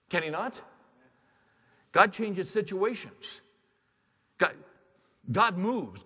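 high, loud pulpit preaching; fiery preaching. Acted. Preacher rallies the congregation about God's power, preaching hard. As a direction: build it up to a revival call. Preacher rises to full force.

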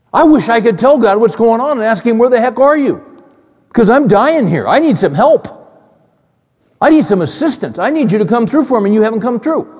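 a preacher acting out Job's anguished complaint; desperate plea. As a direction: voice Job begging God for help.

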